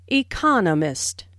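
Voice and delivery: economist with the weight on its second syllable; second syllable stress. Shown as a demonstration. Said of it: "with the stress on the second syllable".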